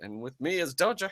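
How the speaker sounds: put-on British announcer accent; Total Biscuit British impression. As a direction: open like a British show host. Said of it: "I was doing the impression".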